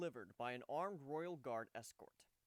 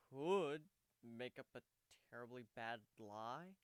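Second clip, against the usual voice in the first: helpless offer; 5 dB louder, slower than usual. Acted. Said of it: "Warren offered helplessly".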